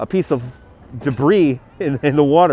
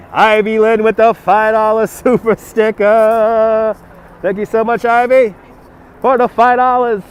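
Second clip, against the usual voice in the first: radio DJ voice; 3 semitones higher, 4 dB louder than usual. Acted. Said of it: "I sound like a radio D J".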